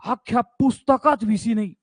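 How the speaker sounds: lightly voiced student objection, pitched a little up; imitating complaining student. Teacher mimics a student complaining about the book, lightly mocking student voice. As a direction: put on a pupil's protest. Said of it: "नाही तर तू नंतर म्हणशील".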